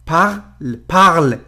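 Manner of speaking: parle ending on a clear l, final e silent; French parle. Shown as a demonstration. Teacher showing the silent ending of French parle. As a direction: stop parle on the l. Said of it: "ببینید به ل ختم شده".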